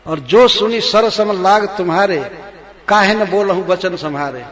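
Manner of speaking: loud, angry queen recites and taunts; angry shout. Acted. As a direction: shout it in rage. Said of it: "क्रोध में होता है तो बहुत जोर से बोलने लगता है". (क्रोध में ज़ोर से बोलती रानी)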